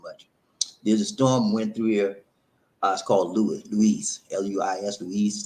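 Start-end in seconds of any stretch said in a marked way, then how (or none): 3.7-5.4 "Louise" said loo-EEZ, then spelled out; pronunciation shown. Shown as a demonstration. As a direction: show how "Louise" is pronounced. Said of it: "That's how they pronounce it".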